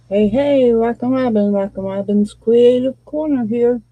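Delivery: words around a hard candy; talking with candy in mouth. Real, not acted. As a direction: talk through a mouthful of candy. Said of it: "if I'm talking funny, that's why".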